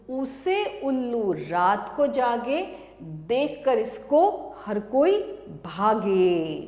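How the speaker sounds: sing-song classroom chant; rhyme recitation. Acted. Teacher chanting a rhyme to small children, sing-song. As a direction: recite it in a bouncing rhythm for kids.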